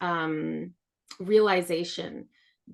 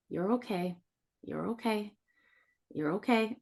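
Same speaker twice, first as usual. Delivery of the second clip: soft self-soothing; 2 semitones higher, 5 dB quieter than usual. Retold or imitated. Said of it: "I've laid there and been like".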